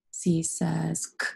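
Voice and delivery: slow "C says K", K a bare click; name C, then give only its "k" sound; letter name, then sound. Shown as a demonstration. Teacher spelling away with pupils, "C says K" slowly, ending on the sound. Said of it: "Spell the word away with me".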